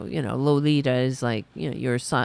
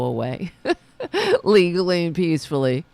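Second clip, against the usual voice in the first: laughing scorn; 4 dB louder than usual. Real, not acted. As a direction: break into laughter mid-line. Laughs at own remark.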